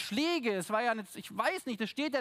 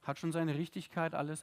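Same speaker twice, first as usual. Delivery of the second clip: mock pious shrug; 4 semitones lower, 3 dB quieter than usual. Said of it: "denken uns".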